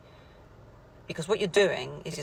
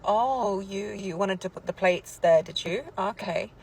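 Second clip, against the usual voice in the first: pointed, higher mock-innocent query; passive aggressive; 5 semitones higher, slower than usual. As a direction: needle him with a loaded question, then a dismissive okay. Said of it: "Passive aggressive".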